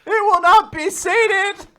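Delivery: loud hammed-up boast; mock boast. Playing the boy declaring loudly. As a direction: declare it grandly. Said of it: "playing the character".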